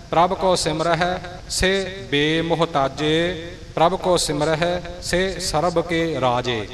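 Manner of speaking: each ਸੇ cut short, as "si"; brief "si" before ਬੇਮੁਹਤਾਜੇ and ਸਰਬ; short sihari vowel. Shown as a demonstration. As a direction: recite with ਸੇ as a short i sound. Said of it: "ਪਰ ਇੱਥੇ ਸੱਸੇ ਸਿਹਾਰੀ ਹੈ".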